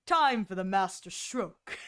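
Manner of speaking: mock suave general, low-ish; lightly deep silky man. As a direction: lightly mimic a suave commander. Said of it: "deep, silky, smooth S kind of male voices".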